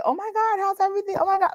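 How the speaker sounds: put-on high gushing girlfriend voice; gushing with friends. Shown as a demonstration. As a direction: squeal it to an old friend. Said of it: "I have a whole different dialogue".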